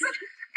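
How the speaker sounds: short high giggle; quick, soft high laugh. Acted. Nurse admiring Romeo's body, giggle.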